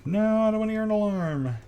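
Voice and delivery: high whine at the alarm; comic high-voiced refusal; mock whiny protest. Real, not acted. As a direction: pitch it way up in protest. Reacting to alarm alert.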